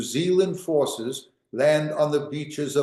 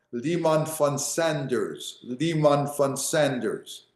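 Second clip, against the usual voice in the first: slow name; slower than usual. Shown as a demonstration. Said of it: "teacher repeats the general's name".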